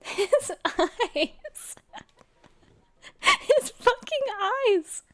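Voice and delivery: high, squeaky voice through laughter; cracking up, pitch climbing high; helpless laughter. Real, not acted. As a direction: squeeze the words out between laughs. Cracking up at the photo.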